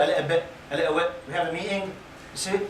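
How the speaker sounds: lightly imitated Birmingham accent. Shown as a demonstration. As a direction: demonstrate how they talk in Birmingham. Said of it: "they have a special accent there".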